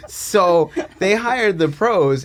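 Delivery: put-on slow, loud Boston accent. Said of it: "tell this entire story in a Boston accent".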